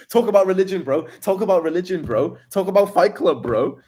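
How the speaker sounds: high, loud mock chant; hammed-up chat spammer. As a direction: parrot the spammers with a sneer. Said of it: "those guys who just spam".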